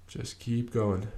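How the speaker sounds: repeated softly and slowly, easing off. Shown as a demonstration.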